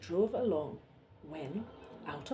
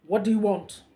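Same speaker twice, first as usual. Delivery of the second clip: gloomy; 10 dB louder than usual. Acted. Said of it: "he asked gloomily".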